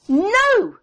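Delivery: put-on loud, high child's cry of no; retold shout. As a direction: shout it as the shocked girl. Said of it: "she shouted".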